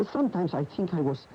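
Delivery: rueful chuckle as you remember being poor; bitter laugh. Acted. Bitter laugh during quarrel.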